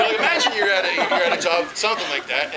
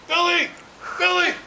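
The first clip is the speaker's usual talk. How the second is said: loud, high calls across the house; calling out; 12 semitones higher, 3 dB louder than usual. Retold or imitated. Caller shouting for his dog named Billy. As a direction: yell for the dog from another room.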